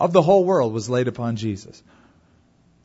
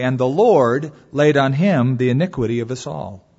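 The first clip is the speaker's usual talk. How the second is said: solemn, louder read-aloud of scripture; 3 dB louder than usual. Acted. Pastor reading Isaiah to the congregation, solemn and raised. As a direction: read the verses with weight.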